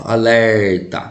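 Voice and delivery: "Alerta" with LER drawn out; stressed syllable stretched. Shown as a demonstration. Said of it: "vamos chamar o alerta?". ("Alerta" com a sílaba tônica LER alongada)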